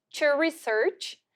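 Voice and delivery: slow "To research"; careful teacher model; model pronunciation. Shown as a demonstration. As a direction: draw out "To research" for the class. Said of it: "Ó a pronúncia".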